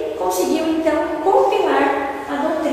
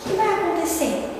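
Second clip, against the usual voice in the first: humble worry; 2 semitones higher, 6 dB quieter than usual. Retold or imitated. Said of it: "Aí ele fala".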